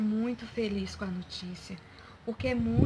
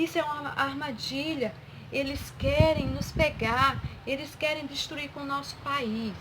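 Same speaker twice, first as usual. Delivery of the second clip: higher-pitched, mildly alarmed king; 4 semitones higher than usual. Acted. Startled king of Israel suspects a trap in the letter, mildly alarmed. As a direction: voice the king's worry with a raised pitch. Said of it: "ele ficou logo assustado".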